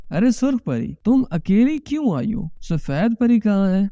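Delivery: lightly voiced mother questioning her daughter. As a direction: play the mother, pitch lifted a little, ارے سرخ پری. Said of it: "امی نے سرخ پری کو دیکھتے ہوئے کہا،".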